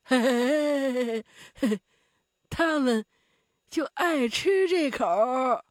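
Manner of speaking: slow hearty heh-heh laugh, then the line; the muscle man laughing at the terrified Zhao; chuckling. A narrator's reading. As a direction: chuckle slowly through the words. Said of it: "那肌肉壮汉又笑了起来".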